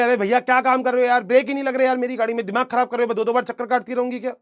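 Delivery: hammed-up frustrated customer scolding; mock annoyed complaint. Girl scolds the mechanic over brakes, mock annoyed.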